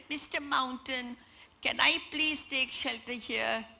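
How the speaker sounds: a hint of a timid little bird asking; tiny voice. Little bird begging the mountain for shelter, a lightly voiced tiny voice. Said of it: "tiny voice said".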